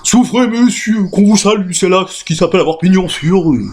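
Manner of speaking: respectful. Acted.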